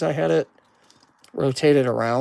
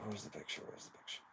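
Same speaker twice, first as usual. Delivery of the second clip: fading mutter; 11 semitones lower, 27 dB quieter, much faster than usual. Real, not acted. Fading mutter while searching.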